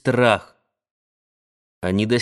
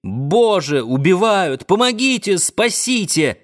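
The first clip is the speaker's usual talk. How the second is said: high, frantic cries for help; a narrated woman's shrill terrified cries; frantic screams; 6 semitones higher than usual. A narrator's reading. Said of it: "истошные крики".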